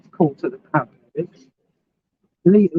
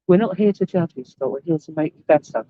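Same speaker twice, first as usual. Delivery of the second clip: mild imitation of deadpan reassurance; straight-faced. Retelling the reassurance given to Scott, straight-faced. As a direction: retell it evenly, keeping a straight face. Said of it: "said it with a straight face".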